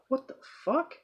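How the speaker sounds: high-pitched baffled reaction; retold bafflement.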